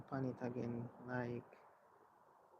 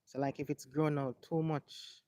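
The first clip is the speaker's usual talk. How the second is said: louder, projected explainer voice; presenting to viewers; 8 dB louder than usual. Real, not acted. Host showing viewers how locks are groomed, louder presenter delivery. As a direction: explain it clearly to the camera, voice up.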